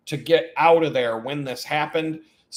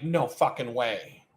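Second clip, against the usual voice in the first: stunned low disbelief; 4 semitones lower, 5 dB quieter, slower than usual. Retold or imitated. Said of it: "And I'm like".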